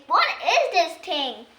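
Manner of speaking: a touch of a puzzled fairy, slow; lightly voiced confused woman; voicing Nanny Plum. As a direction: ask it slowly, bemused. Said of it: "Nanny Plum says".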